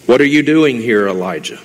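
preacher booming God's question to the hiding prophet; emphatic restated question. Acted. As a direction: push the question out, leaning on doing. Same question restated in plain English.

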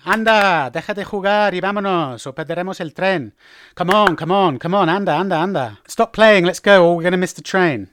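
hurrying someone along, insistent; hasty, urgent. Shown as a demonstration. Parent rushing child for the train, urgent. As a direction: chivvy them with repeated urgent prods. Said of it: "used to express haste".

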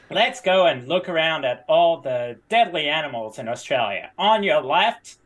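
American faking an Australian guide; terrible Australian accent. Pretend. Tour guide pointing out deadly animals, bad Australian accent. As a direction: put on a clumsy Australian lilt. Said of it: "Australian accent".

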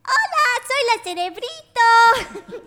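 high, drawn-out, loud character voice; math brainiac. Shown as a demonstration. Woman demoing her radio show character, math brainiac voice. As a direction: squeal a greeting as a kid brainiac. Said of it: "she talked like this".

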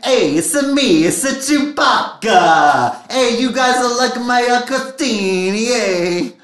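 hammed-up mock Connecticut accent, Mario style. Fiancé Chewbacca greeting the group in a hammed-up Connecticut accent. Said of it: "the most authentic Connecticut accent".

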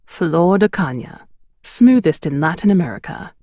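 a hint of a British accent, savouring the words; lightly voiced British photographer praising his rum. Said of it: "holding his glass up and grinning".

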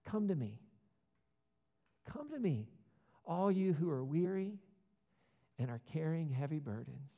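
hammed-up misquoting preacher; a televangelist twisting the verse; mock preacher. To the crowd, a preacher misquoting Jesus with mock zeal. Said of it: "he says".

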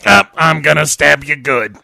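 laughing seductive mummy. Acted. Voicing the mummy.

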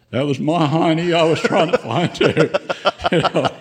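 chuckling through the punchline; telling the buddy he was only saving himself, laughing. Retold or imitated. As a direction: laugh it out as the joke lands. Joking retort in a retold story.

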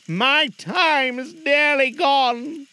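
high, very slow spectral voice; slow mournful ghost. Acted. Marley's ghost warning Scrooge, mournful. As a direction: let the words fade like a dying spirit.

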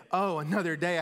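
eager, grateful "Oh, another day"; excited. Pretend. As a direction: greet "Oh, another day" with joy. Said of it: "Or we could say".

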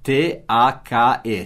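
each letter spelled slowly; slow spelling. Shown as a demonstration. Teacher spells the word for students, slow and clear.

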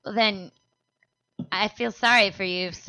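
retold deadpan, quiet with long pauses; dry, unmoved put-down, pausing between phrases. Telling the man at the bar off, deadpan. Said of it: "deadpan, like".

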